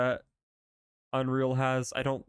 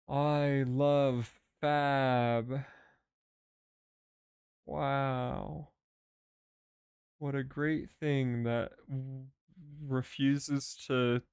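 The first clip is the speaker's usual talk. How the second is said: sarcastic; slower than usual. Real, not acted. Sarcastic praise of Fab.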